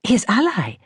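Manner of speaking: a light, cheery touch of posh Iranian lady; bright, posh Iranian accent. A narrator's reading. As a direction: toss it off brightly like a grand Persian lady. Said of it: "said Shireen brightly".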